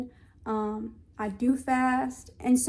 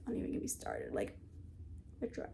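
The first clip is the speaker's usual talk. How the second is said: weary sigh; 16 dB quieter, faster than usual. Real, not acted. Weary aside about dress.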